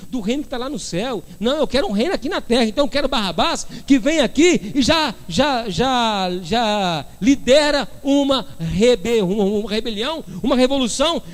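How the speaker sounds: high-pitched, mock-insistent argument; acted insistent crowd. The people choosing Barrabás over a future kingdom, acted insistence.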